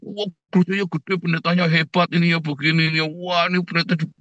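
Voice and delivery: lightly hammed-up admiring chatter; gushing churchgoer. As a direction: imitate someone bragging about their church. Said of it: "ceritanya kehebatannya gereja".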